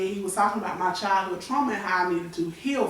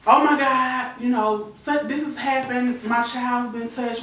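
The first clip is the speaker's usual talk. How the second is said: imitating frantic coworker; 4 semitones higher, slower than usual. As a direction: retell her frantic news, half-acted. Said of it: "she frantic".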